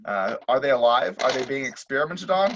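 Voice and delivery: put-on old radio serial announcer; dramatic recap like vintage radio; 1950s narrator. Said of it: "Like a nineteen fifties radio announcer".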